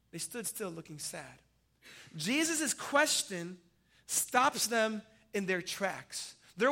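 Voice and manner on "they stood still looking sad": much softer, lower, letting it sink in; hushed repeat. Shown as a demonstration. Preacher echoing the verse softly to the congregation. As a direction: drop to a near hush on the repeat.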